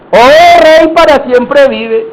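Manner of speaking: loud, drawn-out hail; calling out. Acted. Daniel answering the king from the pit, calling out. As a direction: hail the king loudly, stretching the words.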